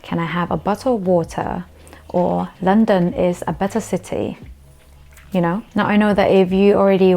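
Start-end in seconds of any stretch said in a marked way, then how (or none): 0.0-1.7 "bottle" and "water" with true Ts; British T. Shown as a demonstration. Practice sentence for learners, clear British T. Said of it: "you can practice the whole thing by combining". 2.6-4.4 "better city" with true Ts; British T. Shown as a demonstration. Practice sentence for learners, clear British T. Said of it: "you can practice the whole thing by combining".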